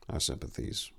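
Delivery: soft, hushed condolence; barely above a whisper; softly. Acted. Tor offering condolence to Dethus, soft hushed voice. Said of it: "Tor said softly".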